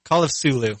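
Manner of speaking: Cthulhu said as Sulu, C dropped. Shown as a demonstration. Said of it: "I'll just get rid of the C".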